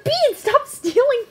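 high, loud, drawn-out scolding; scolding shout. Real, not acted. Owner to Bean stealing egg, high scolding shout. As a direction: call the pet off, loud and slow.

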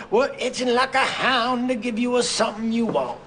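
put-on loud folksy Texas oilman accent; Southern accent. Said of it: "We would have Southern accents".

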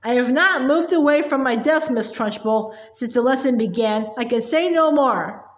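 understated, steady and calm; total calmness. Acted. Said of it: "said with total calmness".

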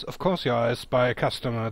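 a hint of a sour little shopkeeper; grumpy little man. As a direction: answer like a sulky small man. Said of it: "The diminutive man replies".

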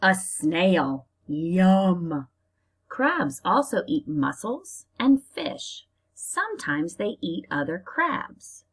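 slow, lively storybook reading; reading to children. Acted. Teacher reading a crab book to her class, storybook style. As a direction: read it out to little kids, drawing it out.

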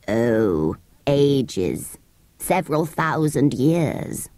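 put-on low, slow old sand creature; Psammead voice. Ancient sand fairy telling children its age, low and slow. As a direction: creak out the answer like an ancient thing.

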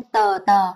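tờ with a vowel after the t; the Vietnamese way, tờ; tờ with an added vowel. Shown as a demonstration. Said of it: "Nó sẽ không tạo ra âm thanh".

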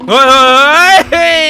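sudden high, loud "hey" cries; startled yelps. Real, not acted. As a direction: yelp in fright. Monster appears suddenly.

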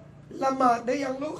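very slow, drawn-out asking; lightly voiced caring parent; gentle parental question. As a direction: coax a child with an unhurried question. Voices parent asking child about prayer.

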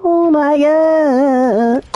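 high, drawn-out shriek of disbelief; shrieking jackpot winner. Real, not acted. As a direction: shriek it like you just hit the jackpot. Reacting to big game moment.

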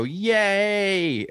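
high excited sorority squeal; squealed yay. Retold or imitated. Two women bouncing and linking hands, high squeal. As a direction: squeal it like a reunited sorority sister.

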